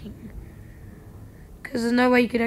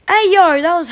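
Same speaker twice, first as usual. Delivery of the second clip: much higher, loud outraged hey yo; loud call-out; 5 semitones higher, 11 dB louder than usual. Real, not acted. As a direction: shout it to call out the cheater. Catching a hacker.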